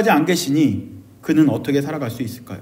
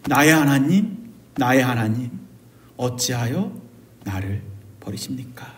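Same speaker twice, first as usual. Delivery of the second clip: low, soft prayer fading to a whisper; hushed confession; 7 semitones lower, 8 dB quieter than usual. Acted. Those in darkness like Matthew confess to God, hushed confession. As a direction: confess it quietly, sinking into a whisper. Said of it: "그래서 이렇게 고백하죠".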